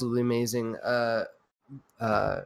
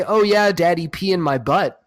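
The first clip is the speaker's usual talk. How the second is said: hammed-up higher louder oh yeah daddy; mock sultry quote; 3 semitones higher, 4 dB louder than usual. Mocking a misreading of his words, hammed-up lewd voice. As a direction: ham up a lewd purr. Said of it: "I didn't say".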